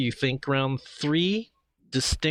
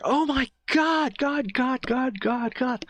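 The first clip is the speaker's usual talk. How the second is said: high-pitched frantic cries, repeating words in panic; panicked woman's voice; 13 semitones higher than usual. Acted. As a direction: play a terrified woman fleeing. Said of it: "it's a woman's voice right now".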